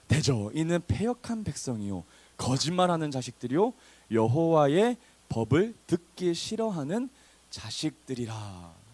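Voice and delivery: slow, emphatic verse reading; scripture reading. Acted. Preacher reads the rebuking verse to the congregation, slow and emphatic. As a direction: read the verse out slowly, leaning on key words.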